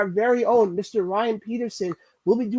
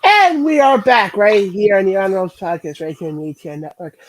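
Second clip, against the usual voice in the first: announcer voice; 9 dB louder than usual. Acted. Podcast host's big return intro.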